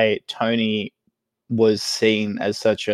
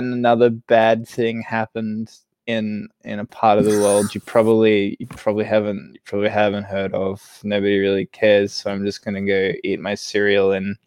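doomer newsreader. Retold or imitated. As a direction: read the news like nothing matters. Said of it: "newsreader for Doomer Twitter".

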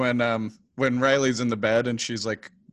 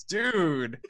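drawn-out exasperated aside, pitched up; Xander impression; 6 semitones higher, much slower than usual. Podcaster mimics Xander's aside to Riley, slow exasperated mock protest. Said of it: "even Xander's like".

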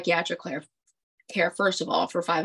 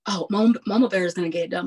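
quick, louder mocking cheer; mock cheering nurses; 4 dB louder, much faster than usual. New nurses hype up their charge nurse, fast mock cheer. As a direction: rattle it off fast like a chant of praise. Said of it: "They were like".

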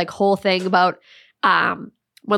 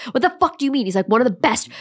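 higher-pitched mock indignation; mad boyfriend; 4 semitones higher, faster than usual. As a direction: imitate an offended boyfriend, mildly mad. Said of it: "getting so mad".

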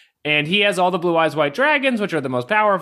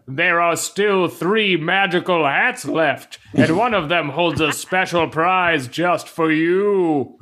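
slow, grand pharaoh proclamation; booming pharaoh; slower than usual. Retold or imitated. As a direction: announce it like an ancient king. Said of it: "him saying magical hats in the booming Pharaoh voice".

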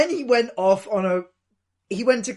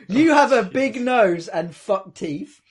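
slow, laughing quote; 4 dB louder, slower than usual. Retold or imitated. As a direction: laugh through it slowly. Laughing while quoting.

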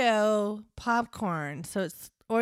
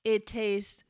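hammed-up commercial announcer, laughing through it; ad read; slower than usual. Cohost reads the popcorn bag as a mock commercial.

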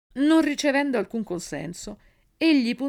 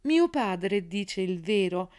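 solemn tone. A narrator's reading. Child goddess addresses the assembled divinities, in a solemn tone. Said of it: "poi proseguì con tono solenne".

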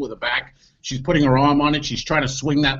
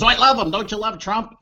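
mock gushing date; 7 semitones higher, 4 dB louder than usual. Quoting the date's gushing.

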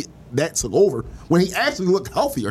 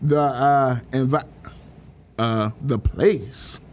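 imitating Magic Johnson; 6 semitones lower, much slower than usual. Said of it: "Magic Johnson be like".

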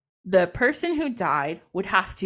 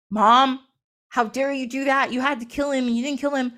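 mad; 3 semitones higher than usual. Retold or imitated. Horus confronting his mother for sparing Set, mad. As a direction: tell Mom off in acted anger. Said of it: "he gets so mad".

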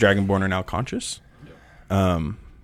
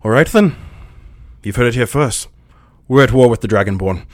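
loud, higher-pitched declaration; Kaz; 4 semitones higher, 9 dB louder than usual. Acted. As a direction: announce war to the room, voice raised. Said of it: "Kaz gets up and he goes".

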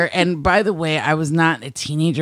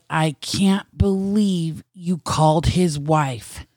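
slow, drawn-out disbelief, voice not raised; slower than usual. Retold or imitated. Telling a friend off for calling the wife, in slow disbelief. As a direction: say it slowly, as if you can't believe it. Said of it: "like, in disbelief".

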